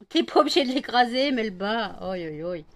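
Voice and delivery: loud telling-off to the dog; sharp call to stop the rough play; scolding the dog. Real, not acted. Owner scolding Melba for crushing the puppy, loud.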